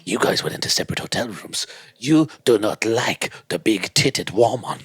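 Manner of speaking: slow put-on French accent; accusing French-accented character, measured and deliberate. Agent confronting the footballer, slow French accent. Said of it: "'cause I can't stop doing the accent".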